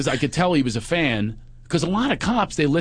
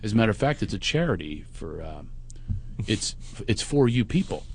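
measured, lower, softened reasoning; smooth-talk it in a calm, easy voice; 4 semitones lower, 4 dB quieter than usual. Retold or imitated. Comedian sweet-talking the cop out of a ticket, very calm. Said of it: "I'm talking to him very calmly".

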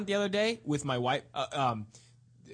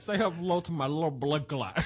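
Scarface. Pretend. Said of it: "sounded like Scarface sucking a dick".

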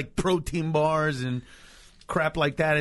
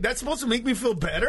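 fast, higher, laughing sarcasm; sarcastic retort; 5 semitones higher, faster than usual. Retold or imitated. Comic answering an apologetic fan, quick, higher and sarcastic. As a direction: toss it back with a laugh. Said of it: "And I'm like".

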